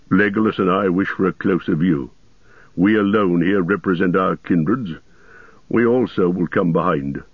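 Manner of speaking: a firm dwarf, lightly voiced; lightly voiced Gimli. Dwarf asks to join the group, lightly voiced firm request. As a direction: speak up steadily as a loyal companion, lightly voiced.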